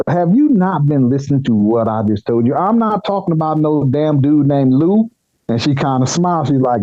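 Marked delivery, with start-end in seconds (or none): 0.1-5.1 retold exasperated protest. Employee to boss who hasn't been listening, exasperated.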